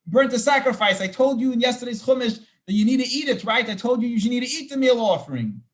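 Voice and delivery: Moses questioning. Retold or imitated. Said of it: "Moshe starts questioning".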